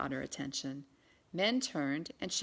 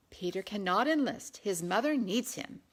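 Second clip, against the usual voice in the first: commanding; 3 semitones higher, 4 dB louder than usual. Acted. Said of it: "at Anne's commanding voice".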